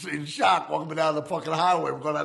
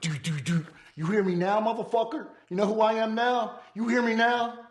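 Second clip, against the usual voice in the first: menacing taunt; 9 semitones higher than usual. Retold or imitated. To the bleeding debtor, menacing and rising. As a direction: lean in and taunt him hard. Threatens man after cutting ear.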